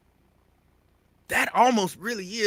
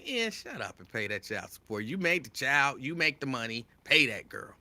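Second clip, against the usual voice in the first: sisters talking; 2 semitones lower, 4 dB quieter than usual. Retold or imitated. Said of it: "Y'all be like".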